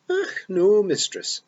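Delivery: bright, cheery wee pixie voice in a Scots burr; chirpy Feagle chief, happy as you like; cheerful Rob Anybody. A narrator's reading. Rob Anybody cheerfully tells Tiffany the dead come back, cheery.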